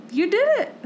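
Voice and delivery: put-on high-pitched cheer for a small child; retold praise. Mom on phone praising daughter's splinter fix, retold cheer.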